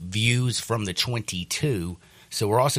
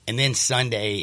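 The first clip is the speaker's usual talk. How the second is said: usual speaking voice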